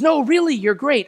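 high, loud, pleading praise; insisting compliment. Retold or imitated. Friend insisting on the compliment, high and loud.

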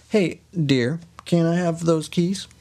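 playful honeyed request; mock-sweet husband. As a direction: ask your dear lightly, up high. Husband sweetly asks for keys.

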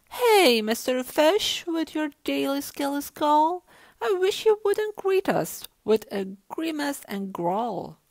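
loud, high hail from a jellyfish; jellyfish calling out. A narrator's reading. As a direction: call out to the fish across the water. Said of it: "Along comes a jellyfish".

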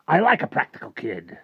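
high, loud, showy praise; hearty approval. Acted. Rictus conceding to Harvey as tigers bound off, hearty. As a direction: flatter him with a big lifted voice.

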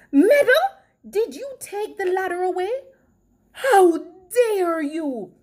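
high, indignant reproach; indignant scolding. A narrator's reading. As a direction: start sharply high and loud, scolding. Missus Puff scolds Meadow.

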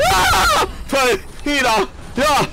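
sudden high cry of relief; relieved shout. Real, not acted. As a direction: yell out in relief.

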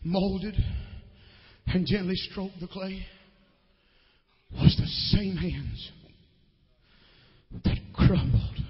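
hushed closing. Acted. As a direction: bring it down to a near whisper. Quiet closing over piano.

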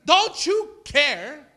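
high, loud acted plea; desperate acted shout, stretched out. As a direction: cry out to wake the teacher. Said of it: "shouting him".

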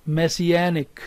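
"messianic" with main stress on "anic". Shown as a demonstration. Teacher has students say with her, stress on -anic. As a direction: model "messianic" for repeating, weight on the "an". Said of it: "Say with me".

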